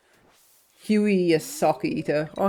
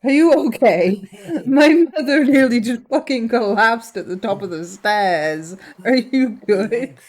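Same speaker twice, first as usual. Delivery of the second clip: startled concern; 3 semitones higher, 4 dB louder than usual. Real, not acted. Mother nearly collapsed on stairs.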